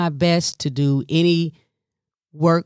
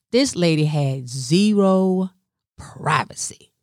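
whisper. Real, not acted. Dramatic aside about mom.

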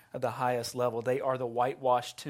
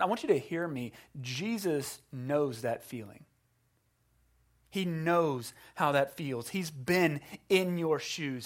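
tender appeal. Real, not acted. Pastoral appeal to sufferers.

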